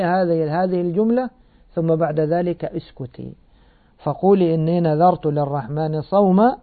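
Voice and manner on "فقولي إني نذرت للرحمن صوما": Quran recitation. Acted. Recites the verse closing.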